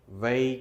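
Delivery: वै held long as "wai"; stressed wai sound. Shown as a demonstration. Teacher drawing out the वै sound for students. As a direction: stretch वै into a clear "wai" diphthong. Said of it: "वे की नहीं".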